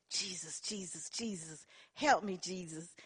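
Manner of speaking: hushed, breathy whisper of Jesus; whispered prayer. Retold or imitated. Praying to herself while her daughters test her, whispered. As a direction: pray it under your breath to stay calm.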